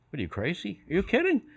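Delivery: rising disbelief, pitch climbing; incredulous. Retold or imitated. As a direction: act floored by the crazy request. Sound man reacts in disbelief.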